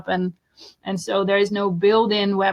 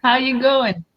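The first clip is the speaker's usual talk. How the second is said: mock Aussie greeting; 5 semitones higher than usual. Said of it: "Those Aussies are pretty colorful people".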